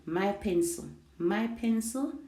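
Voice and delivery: "My pencil" repeated, falling then rising; "My pencil" as a separate, emphasized phrase; stress on my pencil. Shown as a demonstration. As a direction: repeat "My pencil" to drive the contrast home. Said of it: "placing the focus or the emphasis".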